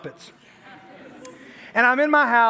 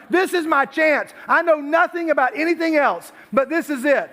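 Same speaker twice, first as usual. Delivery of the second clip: put-on eager girl; 6 semitones higher than usual. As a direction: lightly play the fan who wants this. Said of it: "She's like".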